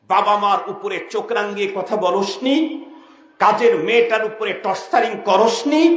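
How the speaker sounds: rising, insistent scolding; scolding angel. Acted. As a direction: rebuke with a string of accusing questions. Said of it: "ধমক দিয়ে বলে".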